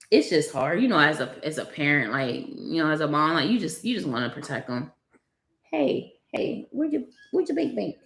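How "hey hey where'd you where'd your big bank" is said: playful hushed coo. Real, not acted. Mother playing with baby.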